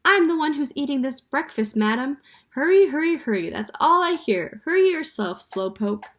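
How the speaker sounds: high, loud squawk; squawking parrot. A narrator's reading. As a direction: screech it like an indignant parrot. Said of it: "Penelope squawked".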